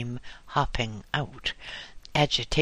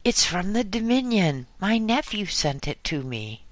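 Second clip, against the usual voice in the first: woman yelling news to her neighbour, higher call; yelled out; 8 semitones higher than usual. A narrator's reading. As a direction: shout it across the fence. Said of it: "she yelled out".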